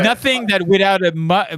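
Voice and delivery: ordinary talk, nothing marked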